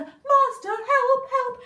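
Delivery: the stolen harp calls its master, high and loud; harp crying for help. Acted. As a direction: cry out to the master in alarm. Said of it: "harp calls again".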